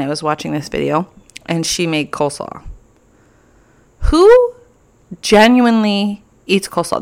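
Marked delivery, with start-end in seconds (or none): 4.0-7.0 very high, loud incredulous squeal; sudden high outraged squeak; incredulous who. Real, not acted. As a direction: shriek the word in disbelief. Disgust at coleslaw.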